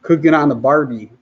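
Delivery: lightly hammed Australian accent; mock Aussie phrase, tossed off. Shown as a demonstration. Jet ski vlogger to viewers, bad mock Australian accent. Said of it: "trying to sound like I'm from Australia".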